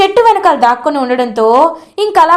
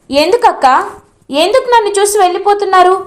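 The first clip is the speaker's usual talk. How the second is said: loud demanding question; 6 semitones higher than usual. Acted. Bhagi confronting her sister who runs away, loud and high. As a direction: pitch climbing higher, pressing harder each word. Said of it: "అని అడుగుతుంది".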